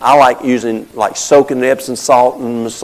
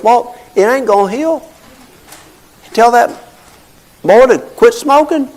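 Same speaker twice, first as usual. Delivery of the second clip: lightly voiced old surgeon, raised pitch; gruff doctor's verdict; 11 semitones higher, 3 dB louder than usual. Old surgeon warning about the smoking patient, mock stern. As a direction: play the blunt older surgeon laying down the law. Surgeon friend's retold advice.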